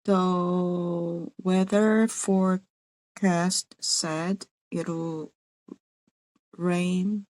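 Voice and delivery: slow, halting learner attempt; carefully sounding out a new phrase; slow careful try. Real, not acted. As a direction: feel your way through it slowly. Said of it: "Almost there".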